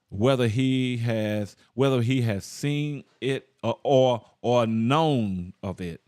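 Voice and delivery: slow, deliberate verse reading; scripture reading. Real, not acted. Preacher comparing the King James verse, slow measured scripture reading. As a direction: read it out phrase by phrase with weighty pauses.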